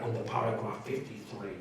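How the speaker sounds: low mock-solemn recital, slowing at the end; lightly voiced Bible-quoting zealot; mock scripture quoting. Inmate quoting scripture at others, mock-solemn. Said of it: "I'd be like".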